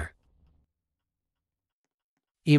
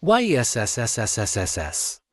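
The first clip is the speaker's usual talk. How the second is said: long stretched victory yes. Real, not acted. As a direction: stretch the yes out as you win. Win cheer in game.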